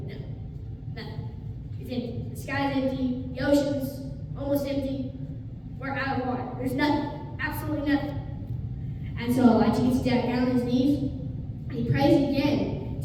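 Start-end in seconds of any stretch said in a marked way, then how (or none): 0.1-8.2 dejected report. Retold or imitated. Servant reporting nothing, dejected.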